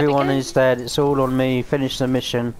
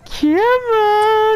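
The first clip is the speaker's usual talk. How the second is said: yelled, higher pitched come on; shouted taunt; 10 semitones higher than usual. Real, not acted. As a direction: bellow it at the enemy. Urging enemies into the trap.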